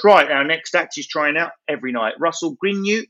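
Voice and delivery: mock compere mangling the name; compere announcing. Compere reading the list, lightly imitated announcer voice. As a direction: announce him like a bored compere. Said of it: "he picks up a list and goes".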